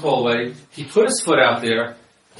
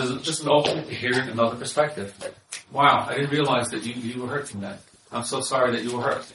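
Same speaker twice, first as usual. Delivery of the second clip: softer and gentle, a sincere apology; open, caring reply; 3 semitones lower, 6 dB quieter than usual. Retold or imitated. Husband answering his hurt wife, gently apologetic. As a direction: soothe her hurt, quietly. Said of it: "the husband responds".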